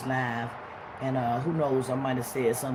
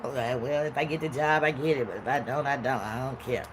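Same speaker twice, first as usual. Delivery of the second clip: indifferent shrug; 3 semitones lower, 4 dB quieter than usual. Retold or imitated. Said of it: "signal the universe".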